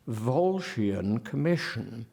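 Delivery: VOLSCIAN COMMISSION with slow sh sounds; contrasting sound. Shown as a demonstration. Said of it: "that sound continued, as against".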